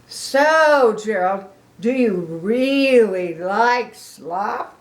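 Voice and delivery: loud, slow hopeful question; eager pig. Acted. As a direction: ask with hope. Piggy asking.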